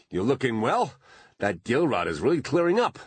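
high, loud and fawning; gushing flattery. A narrator's reading. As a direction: lay the flattery on thick. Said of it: "he gushed".

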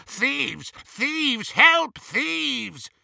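high-pitched alarm cry. A narrator's reading. Goblin calling the guards on the thieves, high alarmed cry. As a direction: raise the alarm in high, urgent calls. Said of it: "brandishing the sword and crying".

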